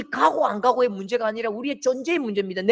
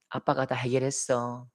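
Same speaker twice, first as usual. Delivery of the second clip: low, soft comforting; father patting his son's shoulder; tender reassurance; 9 semitones lower, 5 dB quieter than usual. Retold or imitated. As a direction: speak gently to a scared child.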